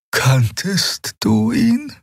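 put-on high, slow young questioner; high and unhurried; Xea's voice. A narrator's reading. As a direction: lift the voice for the young healer. Xea voiced by narrator.

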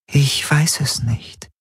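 high, slow, uncertain figure; ratlose Traumgestalt. Acted. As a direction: draw it out high, as if in a dream. Die Gestalt antwortet ihm. (hohe, langsame Traumstimme, ratlos)

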